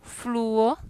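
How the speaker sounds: "Fluo" split as FLU-o; careful two-syllable "Fluo"; vowels in hiatus. Shown as a demonstration. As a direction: stress the u of "Fluo" apart from the o.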